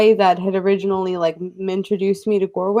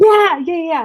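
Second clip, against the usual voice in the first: excited screaming yell, higher; 9 semitones higher, 3 dB louder than usual. Agreeing eagerly to wrap up the mermaid matter: screaming excitedly. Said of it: "Sorry, I'm screaming".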